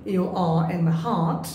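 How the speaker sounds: very slow, "heart" as "haht"; open heart. Shown as a demonstration. Teacher showing the open-mouth sound, "heart" said slowly as "haht". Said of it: "এটা হা করে উচ্চারণ করছি".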